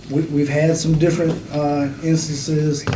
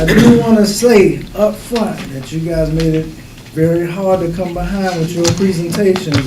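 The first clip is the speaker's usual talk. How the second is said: louder, projecting to the whole room; teacher voice; 5 dB louder than usual. Shown as a demonstration. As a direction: raise the voice like a teacher quieting a class. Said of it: "I'm about to elevate it right now".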